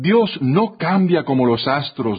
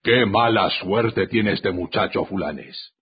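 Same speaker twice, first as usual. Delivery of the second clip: imperturbable; 6 semitones lower, 4 dB quieter than usual. A narrator's reading. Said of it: "dice imperturbable".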